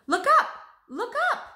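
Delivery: high, loud call to look at the sky; urgent, delighted cry upward; excited call. Acted. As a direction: shout it up, pointing skyward. Leonardo suddenly stops, calls out.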